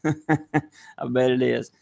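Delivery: slow chuckling repeat; laughing. Real, not acted. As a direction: say it through a laugh.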